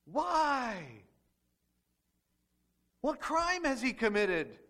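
judge yelling at the crowd. Acted. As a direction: yell the question back at the jury. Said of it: "he's yelling back to the crowd".

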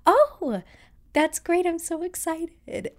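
high, loud, polite excitement; customer service voice. Retold or imitated. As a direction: gush politely on the phone. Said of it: "customer service voice".

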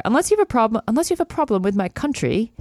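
clumsy put-on British accent; attempted British accent. Brit teasing her about his country, attempted British accent. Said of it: "I am stopping the accent".

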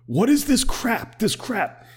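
squeaky, drawn-out mock outrage; mock Lindsey Graham. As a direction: lampoon a pompous senator in disbelief. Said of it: "he's just like".

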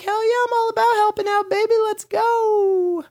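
high, loud, fast hyped-up agreement; hyped-up yes. Retold or imitated. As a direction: jump at the chance, all fired up. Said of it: "And I'm like".

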